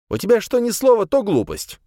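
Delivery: high, loud furious outburst; angry yell. Acted. Салиман орёт на полуночника, громкий злой крик. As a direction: snap at him in a rage. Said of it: "заорал на него Салиман".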